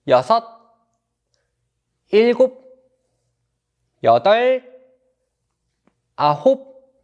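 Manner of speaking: loud counting reps; barking gym coach. Acted. Coach counting dynamic stretch. (헬스 코치처럼 크게 구령)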